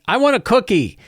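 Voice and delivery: put-on high whiny kid voice; kid asking. Kid on a griffin demands a cookie, high and childlike. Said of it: "And it's like".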